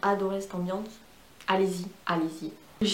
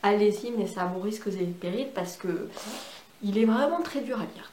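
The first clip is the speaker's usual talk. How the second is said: ordinary talk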